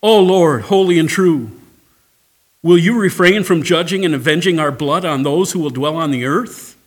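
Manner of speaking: loud pleading cry to the Lord; crying out to God. Acted. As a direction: call out to heaven from beneath the altar. And they cried.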